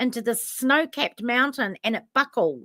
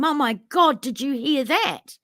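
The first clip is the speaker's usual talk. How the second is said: retold excited yell; 4 semitones higher than usual. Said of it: "I screamed down to him".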